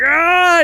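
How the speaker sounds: loud, high battle yell. Retold or imitated. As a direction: let out a big fighting cry. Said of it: "he's like".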